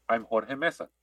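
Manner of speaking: "Jorge Mesa" pronounced the Spanish way; Spanish accent. Acted. Repeating the suggested introduction for George, in a Spanish accent. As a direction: give the name a Spanish accent. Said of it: "say it with a Spanish accent".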